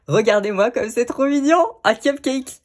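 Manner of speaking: high-pitched, delighted cooing over something cute; real, rising excitement; excited gushing. Real, not acted. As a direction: gush as if showing off something adorable. Gushing over a cute little object.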